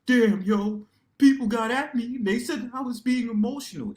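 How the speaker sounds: high, loud mock whimper of hurt feelings; hammed-up sulking over what people said; mock crying into a pillow. Mocking himself crying after a stream panel, high and loud. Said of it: "crying in my pillow and be like".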